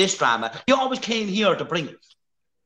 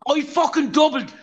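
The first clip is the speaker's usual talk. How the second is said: raised, furious threats; angry threat; 3 semitones higher, slower than usual. Real, not acted. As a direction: snarl out the threats. Threatening the absent rival.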